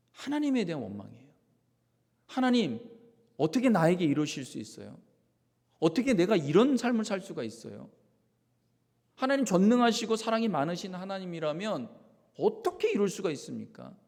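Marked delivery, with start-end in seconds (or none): 2.3-14.0 raised voice pleading in resentment; resentful complaint. Acted. Pastor voicing a resentful believer complaining to God. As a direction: accuse God, hurt and loud.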